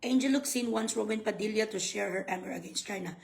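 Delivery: low, quiet article reading; subdued read-aloud voice. Real, not acted. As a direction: read the headline out, low and soft. Reads an article headline aloud.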